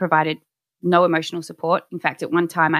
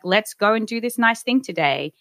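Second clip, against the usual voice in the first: higher, lightly acted upbeat invitation; retold hopeful suggestion; 5 semitones higher than usual. Suggesting a nice day out to her partner, mock upbeat. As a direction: pitch it up, as if proposing a treat.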